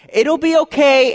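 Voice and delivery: lightly acted there-there voice; soothing parent. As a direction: act out a dad comforting his little one. Voicing a father soothing crying child.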